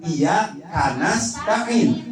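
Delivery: iya karena stain as iya, kanasta'in; slow, break after iya, ka joins nas; wrong word break. Shown as a demonstration. Teacher warns against this reading, wrong word break.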